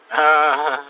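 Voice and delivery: a light put-on African accent; friendly African accent, lightly done. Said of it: "African accent".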